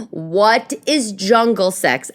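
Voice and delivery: gasp, then draw out the question in mock shock; baffled reaction. Podcaster reacting to a celebrity's marriage secret, mock baffled. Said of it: "I was like".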